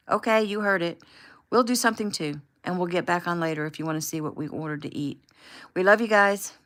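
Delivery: cheery sign-off. Acted. The host signing off livestream.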